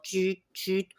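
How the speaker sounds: short "tut, tut" scanner noise; imitated scanner beeps. Scanning people like in the films, imitated beeps. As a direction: mimic a film scanner beeping. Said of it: "comme dans les films".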